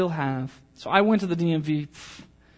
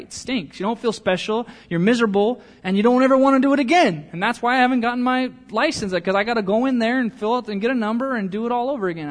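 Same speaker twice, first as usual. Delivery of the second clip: higher, louder and fast, getting heated; worked up; 6 semitones higher, 6 dB louder than usual. Real, not acted. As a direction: rant about the DMV with rising heat. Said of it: "I'm getting all worked up already".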